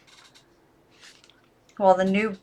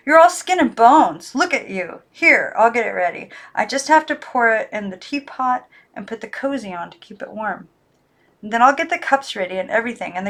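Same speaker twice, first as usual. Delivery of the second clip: higher, brisk motherly fussing; fussing girl voice; 3 semitones higher, 3 dB louder than usual. Acted. Girl fusses over weak dolls, motherly. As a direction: scold them kindly and bustle.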